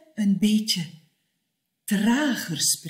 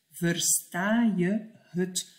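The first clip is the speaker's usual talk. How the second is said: slowly "Versta je het?", each word clear; slow careful; slower than usual. Shown as a demonstration. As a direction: spell it out slowly. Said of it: "kort voor het". (langzaam en duidelijk)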